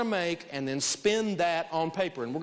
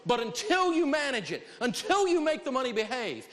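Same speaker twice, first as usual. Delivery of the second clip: preaching build; 7 semitones higher than usual. Acted. Rising sermon-like exhortation.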